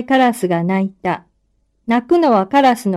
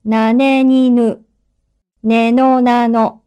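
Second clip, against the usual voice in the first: dictating. Shown as a demonstration. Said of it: "かなを使って書き取ってください".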